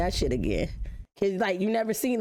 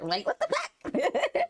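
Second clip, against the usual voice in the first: much higher and slow, laughing through it; much slower than usual. Real, not acted. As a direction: stretch it out in disbelief, laughing. Laughing at porn memory.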